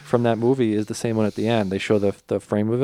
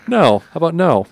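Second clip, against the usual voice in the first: mock defiant refusal; 7 semitones higher, 7 dB louder than usual. Norton refusing to leave.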